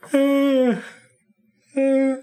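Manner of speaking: strained high groan breaking off mid-sentence; the pain suddenly catches him, groan high and strained. Acted.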